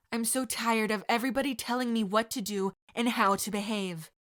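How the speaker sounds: fed up and defiant; indignant protest. Acted.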